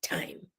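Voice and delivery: thyme said like "time". Shown as a demonstration. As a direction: begin thyme with a T, not TH. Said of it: "Jamaica, we don't love say no H".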